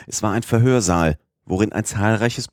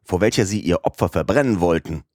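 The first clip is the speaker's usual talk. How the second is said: impetuous outburst. Acted. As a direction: rush it out hotly, no holding back. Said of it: "rief Passepartout ungestüm".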